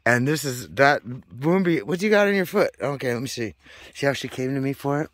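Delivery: high doting coo to the cat; high pet voice. Real, not acted. High pet talk to second cat.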